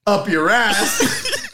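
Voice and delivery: gruff sitcom dad threat, slowing on the punchline; Red Foreman. Retold or imitated. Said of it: "like he was Red Foreman".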